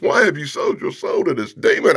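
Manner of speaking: high-pitched mock outrage; upset woman. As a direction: plead in hammed-up dismay. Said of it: "Michelle Obama's upset".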